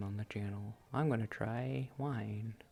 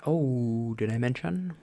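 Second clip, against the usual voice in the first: loud, bursting oh did I mention; excited remembering; 2 semitones higher, 9 dB louder, slower than usual. Real, not acted. Telling viewers about a gummy: loud excited blurt. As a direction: blurt it out, thrilled.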